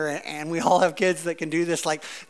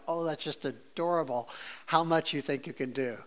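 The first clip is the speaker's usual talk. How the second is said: God amused at us; 4 semitones lower, 10 dB quieter than usual. Retold or imitated. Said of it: "he has to look at us and go".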